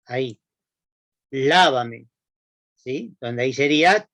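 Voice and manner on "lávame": "Lávame" con el golpe en la A: LÁ-va-me, más fuerte; acento en la primera A. Shown as a demonstration. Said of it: "con acento en la A". ("Lávame" con fuerza en la primera A, forma de tú)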